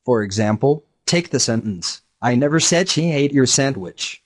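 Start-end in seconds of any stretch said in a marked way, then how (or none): 2.2-4.2 said stressed, falling. Shown as a demonstration. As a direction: lean on the word "said" with a falling tune. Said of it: "depending on which word the speaker accents".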